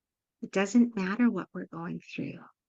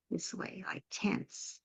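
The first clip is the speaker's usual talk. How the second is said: whispered self-question; 9 dB quieter, slower than usual. Pretend. Parent asking herself why she feels tense, whispered. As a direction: drop to a whisper mid-question.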